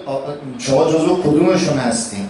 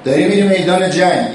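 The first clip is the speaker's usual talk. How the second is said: higher, raised voice calling across the field; mock battlefield call, pitched up; calling out warning; 5 semitones higher than usual. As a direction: shout a warning to the rider going to battle. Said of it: "یه کسی از اون ور داد زد".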